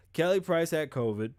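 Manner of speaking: talking through hiccups; hiccuping mid-sentence. Real, not acted. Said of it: "I'm gonna stop hiccuping".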